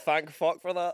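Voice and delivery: hammed-up thank-goodness; mock relief. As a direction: sell the sarcastic relief. So you're like.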